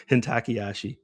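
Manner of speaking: Hintakiyashi in a white foreigner's accent, hin-tacky-ASH-ee; white man accent. Shown as a demonstration. Trader showing viewers his gaijin accent, foreigner pronunciation. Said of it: "my white man accent or foreigner accent".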